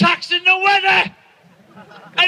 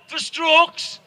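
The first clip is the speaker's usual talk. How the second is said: mock advert voice; slower than usual. Parodying a stroke advert on the telly, solemn announcer voice. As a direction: intone it like a TV health ad. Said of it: "Have you seen that one?".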